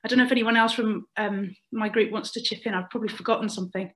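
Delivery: slightly breathless, hurried words; out of breath. Real, not acted. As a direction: talk like you just ran back. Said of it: "I'm a bit out of breath".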